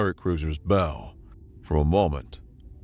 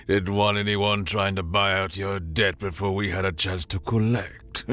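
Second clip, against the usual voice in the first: tinny, oily pirate captain; false friendly pirate; 3 semitones higher than usual. Acted. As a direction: fake cheer over a comm line. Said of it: "tinny voice ... dripping with false bonhomie".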